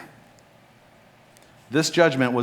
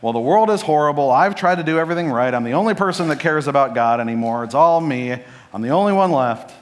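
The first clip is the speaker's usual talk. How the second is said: louder, mock-despairing rant; self-pitying inner voice; 3 semitones higher, 4 dB louder than usual. Imitating a believer's gloomy thoughts, mock self-pity. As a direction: play the martyr, a touch overdone. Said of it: "and you start thinking".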